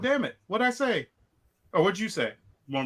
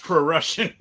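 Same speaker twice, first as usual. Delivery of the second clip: louder, breaking into a laugh; amused echo; 5 dB louder than usual. Real, not acted. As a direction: repeat the silly word, laughing. Amused echo of co-host's coinage.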